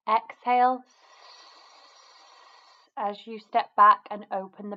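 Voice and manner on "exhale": hissing exhale. Shown as a demonstration. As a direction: exhale on a long snake-like S. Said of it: "make an S sound like a snake".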